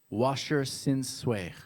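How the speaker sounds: slow, loud put-on Russian accent. Shown as a demonstration. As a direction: punch each word in a mock-Russian accent. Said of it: "I'll do it in my Russian accent".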